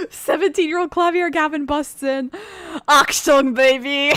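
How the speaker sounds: hammed-up German accent, high and loud; Klavier Gavin. Player crashes Klavier Gavin into the scene, hammy German accent. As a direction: burst in with a bad, giggly German accent. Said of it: "worst German accent I've ever heard".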